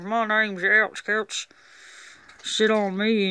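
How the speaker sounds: slow, lightly drawn-out redneck voice for the toy; a hint of a hillbilly twang, unhurried; redneck accent. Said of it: "talk with a redneck accent".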